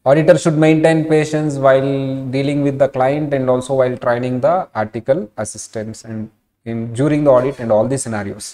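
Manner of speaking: very slow, measured dictation read. Acted. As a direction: spell it out slowly for notes. Reads definition slowly for notes. (Notes కోసం నెమ్మదిగా చెప్పడం)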